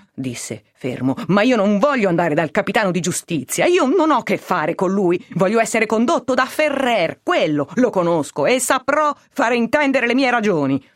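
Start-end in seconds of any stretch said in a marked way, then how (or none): 1.3-10.8 higher-pitched, mildly acted defiance; insistent protest. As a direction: argue your case, refusing to comply. Arrested man refuses to go along. (protesta insistente, a voce più acuta)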